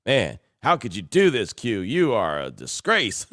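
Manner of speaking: imitating an outraged fan, slowing on the final verdict; mock indignation. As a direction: play up a listener's outrage, drawing out the last words. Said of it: "He was hot".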